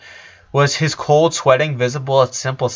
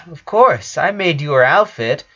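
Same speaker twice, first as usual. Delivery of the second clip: happy; 4 semitones higher, 4 dB louder than usual. Acted. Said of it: "said Lola happily".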